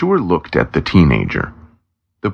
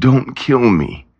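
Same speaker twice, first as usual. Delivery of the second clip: slow, higher-pitched pleading; understated groan, slow and raised; mild groaned plea; 8 semitones higher, slower than usual. A narrator's reading. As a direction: beg with a touch of a groan, drawn out. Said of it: "the sales clerk groaned".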